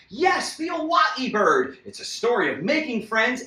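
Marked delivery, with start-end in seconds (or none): 0.1-1.8 excited plug. Real, not acted. Promoting his book.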